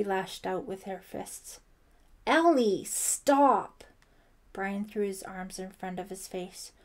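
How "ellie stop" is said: high, loud cry to stop; urgent shout. A narrator's reading. Brian fending off Ellie's fists, urgent shout. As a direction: shout her down in alarm.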